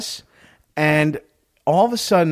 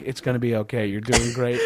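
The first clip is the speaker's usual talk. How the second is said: low, soft comforting murmur; reassuring; 5 semitones lower, 4 dB quieter than usual. Retold or imitated. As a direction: soothe someone softly while half-distracted. Retelling himself comforting passenger while distracted.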